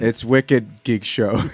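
put-on slow Boston accent, leaning on wicked. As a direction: drawl it out like a Boston local. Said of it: "Geek Show with a Boston accent".

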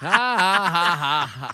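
spelt-out laugh. Real, not acted.

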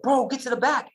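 high, urgent yelled order; retold yell. Rescuer yelling at a man on the longboard, retold yell. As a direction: raise the pitch and urge him back. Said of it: "yelling at Tyler".

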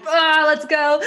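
laughing, bright burst of let's go; fiery go-getter. Retold or imitated. Friend joking about her fiery nature, eager laughing cry. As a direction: rev up like a triple fire sign. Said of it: "I'm just like".

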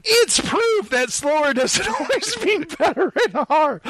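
a hammed-up British lady; British female voice. Reading a female critic's quote in a mock British accent. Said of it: "my female voice has to be like a British accent".

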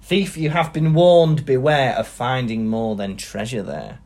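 slow warning read from a verse; measured, portentous falling cadence; poem recitation. Acted. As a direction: intone it gravely, drawing out the words. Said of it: "if you read the last line again".

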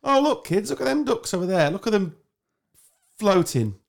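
high, cheery parent pointing out ducks; sing-song dad voice to little kids; parent talking to kids. Retold or imitated.

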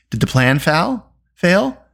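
slow, anxious question rising high; fearful. A narrator's reading. Taryn asking the bard if the plan failed, fearful. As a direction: ask with dread, climbing on the last word. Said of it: "asked Taryn fearfully".

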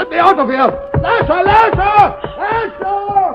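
calling out for help, rising to a shout; trapped man shouting for his servant; desperate calling. Acted. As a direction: yell for Lasher, desperate. Boland trapped, calls for Lasher.

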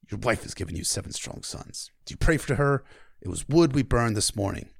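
a hint of a stern king, jaw clenched; lightly voiced grim king; Stannis voice. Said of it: "I always try to clench my jaw when I do the Stannis lines".

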